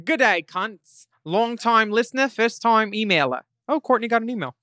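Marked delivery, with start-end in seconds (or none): 0.0-3.4 put-on a light Australian accent, read aloud. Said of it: "so here's some accent help".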